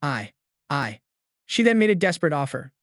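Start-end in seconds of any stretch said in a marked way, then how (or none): 0.0-1.0 soft, lost for words stammer. A narrator's reading. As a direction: trail off stammering, at a loss. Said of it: "Liu Yan stammered".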